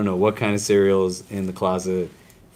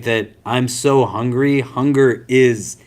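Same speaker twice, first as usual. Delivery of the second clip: Hunger is said slowly with weight; emphatic hunger; 2 semitones higher, slower than usual. Shown as a demonstration. Teacher showing the emphatic form of hunger, slow and weighted. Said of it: "emphatic quality of me".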